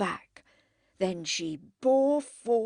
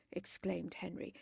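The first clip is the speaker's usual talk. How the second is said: ordinary delivery, nothing marked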